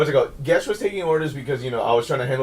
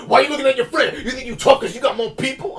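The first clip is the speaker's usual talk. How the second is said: mock old man; 9 semitones higher, 4 dB louder than usual.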